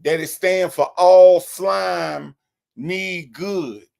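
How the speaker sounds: slow, stretched mock of a pompous speaker; lightly imitated slow preachy drawl; mocking Big Jeff. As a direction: drag out all slime like a know-it-all. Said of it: "they gonna say".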